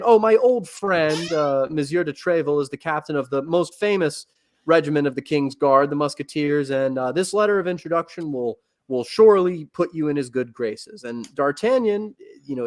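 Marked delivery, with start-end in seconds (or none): 0.0-11.0 lightly acted father, lifted on the opening words; a hint of a father fondly recalling an old friend; father's send-off. Father sending D'Artagnan to Paris with a letter, lightly voiced. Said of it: "D'Artagnan's father gives him a letter and tells him".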